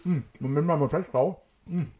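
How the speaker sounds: talking through a mouthful of liquid; words round a mouthful of rinse; swishing mouthwash. Real, not acted. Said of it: "ich muss spülen".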